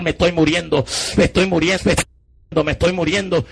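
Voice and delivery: urgent repeated calling, not full volume; retold cry. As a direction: cry out in a reenacted plea. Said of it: "Empecé a gritar".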